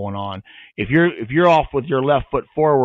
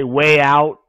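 loud command; 7 dB louder than usual. Retold or imitated. Mimics other handlers' send command.

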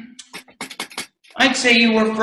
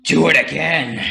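commanding; 2 semitones lower than usual. Acted. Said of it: "he commanded".

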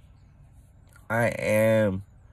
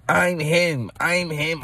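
lightly voiced cocky player, higher; a hint of a boastful athlete; Austin Reaves brag; 8 semitones higher, slower than usual. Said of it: "Austin Reaves say".

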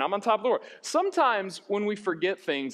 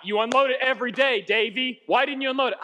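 raised, mildly exasperated scolding; arguing dad; 5 semitones higher, 3 dB louder than usual. Retold or imitated. Dad to son over the dishwasher, argumentative. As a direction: imitate a dad taking his son to task. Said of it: "oof, constant arguments".

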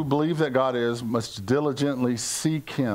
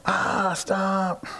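exasperated protest; 5 semitones higher than usual. Retold or imitated. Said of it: "I'm going".

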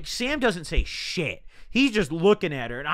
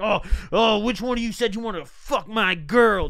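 mock macho challenge, slightly raised voice; big macho man; 3 semitones higher than usual. Imitating the angry boyfriend confronting two guys, mock macho. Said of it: "he's acting big macho man".

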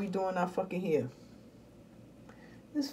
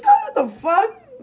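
mock shock; 10 semitones higher, 7 dB louder, much slower than usual. Mock reaction of viewers.

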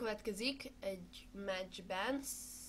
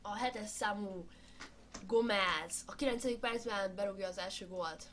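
sports commentary. Pretend. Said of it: "én vagyok a kommentátor".

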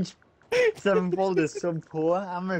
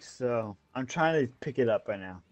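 slurred, tipsy speech; 6 semitones lower, 3 dB quieter than usual. Real, not acted. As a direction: talk like you've had too many. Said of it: "I'm too drunk right now".

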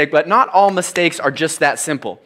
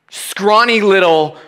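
whispered; 5 semitones higher, 5 dB louder, slower than usual. Real, not acted. Self-description while retelling panic.

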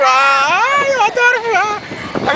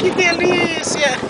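blissful; much slower than usual. Real, not acted. Enjoying the ride slowly.

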